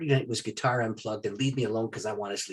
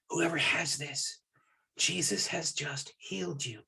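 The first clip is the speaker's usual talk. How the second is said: slow, softer declaration of healing; solemn pronouncement; 2 semitones higher, 6 dB quieter, slower than usual. Retold or imitated. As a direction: pronounce it slowly, with quiet conviction.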